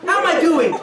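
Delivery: an overworked mom who has had enough; exasperated wife. Acted. Wife answers after a long day.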